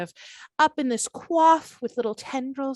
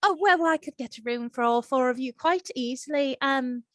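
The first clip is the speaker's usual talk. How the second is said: put-on Irish accent. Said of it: "sounding like Aisling Bea".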